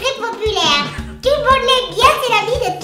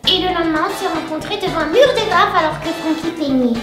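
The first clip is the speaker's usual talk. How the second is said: helium voice. Real, not acted. En inspirant l'hélium contenu dans des ballons.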